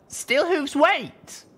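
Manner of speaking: high, loud urgent call; high shouted warning. A narrator's reading. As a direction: stop him before he acts. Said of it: "I called out".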